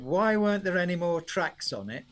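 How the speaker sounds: lightly imitated Yorkshire father; a touch of broad Yorkshire complaint; Yorkshire accent. Father questioning son about his CD, mock Yorkshire accent. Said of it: "Yorkshire accent".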